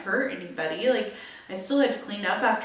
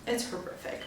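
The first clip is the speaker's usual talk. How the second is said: whispered horrific; 8 dB quieter than usual. Real, not acted. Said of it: "whispered aside on broken glass".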